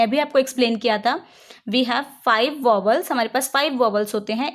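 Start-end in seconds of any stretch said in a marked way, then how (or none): 1.7-3.1 slow, deliberate rule reading; slow dictation read. Shown as a demonstration. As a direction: read the rule out slowly for students to write. Slow teaching statement. (धीरे-धीरे नियम पढ़ना)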